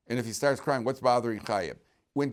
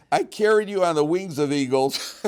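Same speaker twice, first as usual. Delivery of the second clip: louder and higher, declaiming the verse; bold declaim; 7 semitones higher, 10 dB louder than usual. Shown as a demonstration. Teacher forcing himself through the verse for the class, loud and bold. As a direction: belt it out like a brave proclamation. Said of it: "I'm gonna man up and do it".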